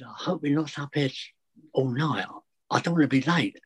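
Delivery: lightly put-on stern teacher tone; teacher's voice. Retelling it to the nervous head teacher, lightly mimicking a teacher. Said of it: "in a teacher's voice, not what, but with a what".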